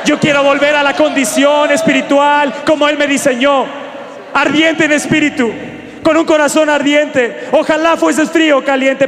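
rising, forceful call with shouted peaks; fervent preaching. Acted. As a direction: preach it out, stirring the room.

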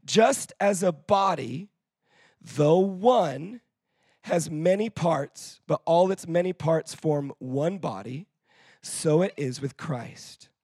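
slow, weighty Bible reading; a pastor reading slowly to the church; scripture reading. Acted. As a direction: read each phrase with weight.

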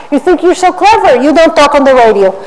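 high sneering taunt; mock a smug put-down. Mocking a smug man with a high sneer.

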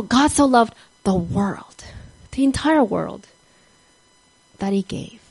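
slow, whispered proclamation. Acted. Preacher to listeners, slow whispered emphasis. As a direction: whisper it with weight.

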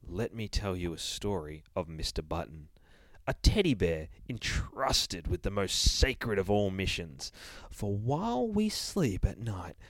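slow, measured storybook narration; story narration. A narrator's reading. Reader opening a children's tale, slow storybook voice. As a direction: draw the reader into the tale slowly.

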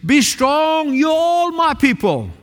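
preacher voicing the prophet's charge; prophet proclaiming. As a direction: declare it like God's messenger. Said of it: "he said".

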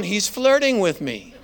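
half-joking flattered woman; flattered giggle. Retold or imitated. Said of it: "she's going".

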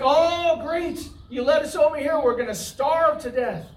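mock grumbling about starving; mock complaining. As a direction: gripe like a hungry, ungrateful crowd.

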